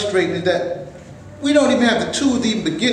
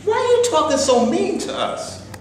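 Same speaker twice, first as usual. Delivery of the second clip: hurt protest; 10 semitones higher than usual. Acted. Jim protests the quarrel.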